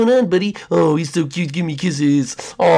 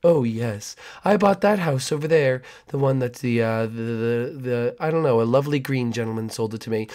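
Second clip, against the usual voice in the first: creepy neighbor; 3 semitones lower, 3 dB quieter than usual. Acted.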